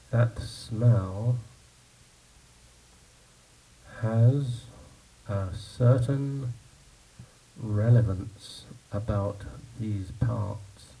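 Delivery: slow, soft, lightly voiced old local with a hint of menace; ominous old man. Old man warns the newcomer in the pub, slow and ominous. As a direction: drawl out the warning slowly as a knowing old villager.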